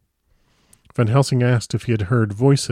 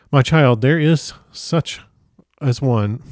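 halting, tripping over the words; fumbled slow read that derails; tongue-tied stumble; 4 semitones higher, 3 dB louder, slower than usual. Real, not acted. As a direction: lose the line mid-phrase and drag it out. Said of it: "I am completely tongue-tied".

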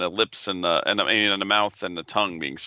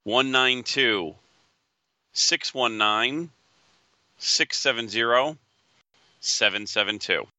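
raffle caller; slower than usual. Acted. Reads item number slowly.

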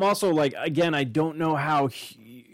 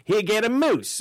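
higher, lightly put-on English accent; mock English voice; 6 semitones higher than usual. English officials handing out a moose, in a lightly put-on English accent. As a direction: hand over the prize like a jolly English official. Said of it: "I don't know why they're English now".

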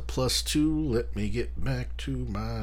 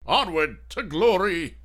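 heroic rallying cry; 5 semitones higher than usual. Pretend.

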